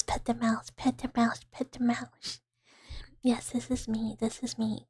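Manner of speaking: hushed, repetitive cooing; soft ASMR murmur. Real, not acted. Lab mouse streamer thanking for head pats, soft ASMR murmur. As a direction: murmur it gently, close to a whisper.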